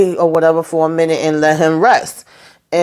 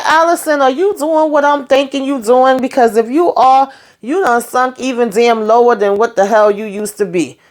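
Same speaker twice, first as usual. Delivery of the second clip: outraged call-out; 5 semitones higher than usual. Retold or imitated. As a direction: scold Allison in disbelief, pitch falling back. Speaker recalls yelling at Allison.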